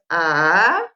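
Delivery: "ah" dipping low, then swooping up; long "ah" that sinks and climbs; tercer tono. Shown as a demonstration. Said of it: "El tercer tono es". ("ah" bajo que luego sube)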